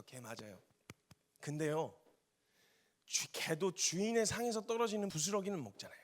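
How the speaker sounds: soft, pleading voice of a humbled woman; humble plea. Acted. The Canaanite woman humbly begging Jesus, softly pleading. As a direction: beg quietly for just the crumbs.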